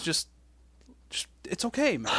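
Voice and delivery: soft calming whisper. Real, not acted. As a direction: hush him gently.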